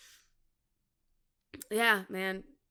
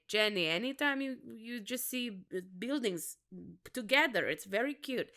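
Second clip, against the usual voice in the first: badly faked vague Middle Eastern accent; halting, hammed-up Middle Eastern accent; Osama; 3 dB quieter than usual. Comic imitating Osama on the cute main street, in a terrible Middle Eastern accent. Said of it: "It is a terrible Osama accent".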